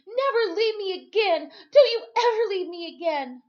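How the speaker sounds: high, loud harsh yell; frightened boy yelling at Timothy. Acted. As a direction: snap at him, scared and furious. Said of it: "I said harshly".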